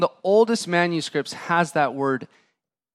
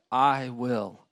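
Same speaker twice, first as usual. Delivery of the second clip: gentle promise; 5 semitones lower, 5 dB quieter, slower than usual. Acted. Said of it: "touched him and said".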